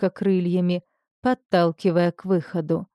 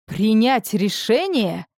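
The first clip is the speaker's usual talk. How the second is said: booming voice; 3 semitones higher, slower than usual. Acted. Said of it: "прогремел голос Арвера".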